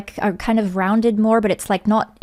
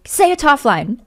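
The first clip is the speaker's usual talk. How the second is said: loud, higher mock fan request; mock demand; 5 semitones higher, 5 dB louder, slower than usual. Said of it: "They just are like".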